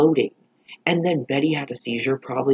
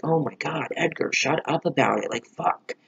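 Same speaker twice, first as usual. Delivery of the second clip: annoyed; 4 semitones higher than usual. Retold or imitated. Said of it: "even Betty was, like, getting annoyed".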